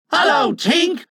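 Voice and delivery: put-on high boys' chorus greeting; surprised high-pitched hail; wondering cry. A narrator's reading. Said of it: "cried the wondering boys".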